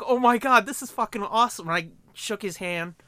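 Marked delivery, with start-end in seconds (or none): 0.1-1.7 thrilled. Retold or imitated. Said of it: "I was like".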